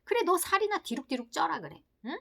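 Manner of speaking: exasperated scolding, a loud burst at the start; mock scolding, growing harsher; scolding superego. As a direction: tell yourself off like a nagging parent. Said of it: "몇 배로 커지면서 말하는 거예요".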